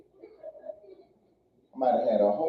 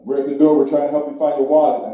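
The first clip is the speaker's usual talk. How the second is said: police at the door; 2 semitones lower, 8 dB louder than usual. Retold or imitated. Police yelling through the door.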